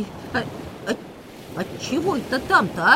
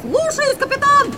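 squeaky pirate sailor; 12 semitones higher than usual. Acted. High pirate crew voice.

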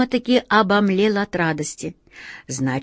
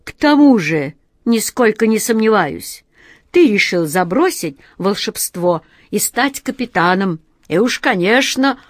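suspicious jealous genie; 3 dB louder than usual. Acted. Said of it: "ревнивый и подозрительный взгляд".

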